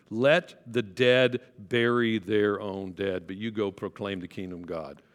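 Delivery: slow and weighty, every word laid down; the verse read slowly, in earnest. Shown as a demonstration. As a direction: read it out slowly and seriously, straight. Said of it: "Did he say it sarcastically?".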